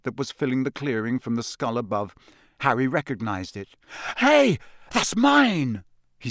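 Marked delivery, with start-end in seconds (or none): 4.2-5.8 put-on boy voice. Harry claims his wand.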